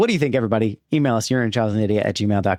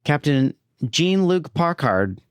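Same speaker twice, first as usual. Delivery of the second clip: bad child actor; 4 semitones higher, slower than usual. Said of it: "Just a bad child actor".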